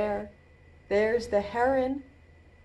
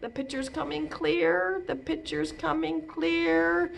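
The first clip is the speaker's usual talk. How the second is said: hushed, raised mind-reading chant; pretend mind reader; 7 semitones higher than usual. Pretend mind reading, vision forming.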